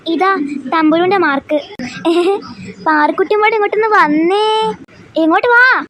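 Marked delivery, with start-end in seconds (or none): 2.9-5.8 put-on raised voice calling the child over. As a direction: call her up to the desk, firmly. Teacher calls student forward.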